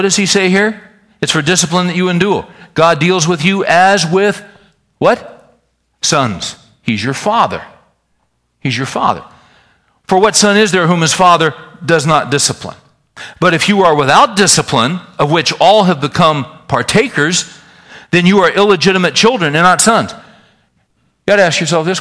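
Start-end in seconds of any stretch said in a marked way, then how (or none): 1.2-6.6 higher, rising hold on with, then a prompting what; fill in the blank. Shown as a demonstration. 10.1-20.1 scripture reading. Acted. Reads Hebrews to congregation.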